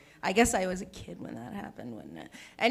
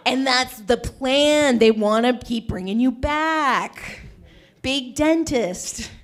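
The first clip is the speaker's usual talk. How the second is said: slow conspiratorial; 5 semitones higher, 8 dB louder, much slower than usual. Pretend. Conspiracy bit.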